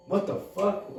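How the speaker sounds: high-pitched retold disbelief; bewildered. Dad reacting to the strange phone call, bewildered. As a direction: act out his baffled reaction.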